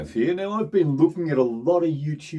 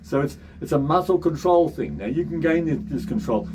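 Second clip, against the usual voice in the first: higher talking voice; high pitched voice; 5 semitones higher than usual. Shown as a demonstration. Coach explains muscle control in a high pitched voice. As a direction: keep your speech pitched up high. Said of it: "high pitched talking voice".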